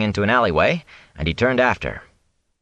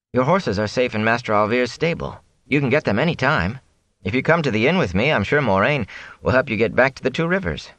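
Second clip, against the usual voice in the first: lightly voiced earnest young man, higher; Rand, reassuring; 5 semitones higher than usual. Rand promises the peddler help, reassuring. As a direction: offer help gently, pitched up. Young hero's voice in narrated dialogue.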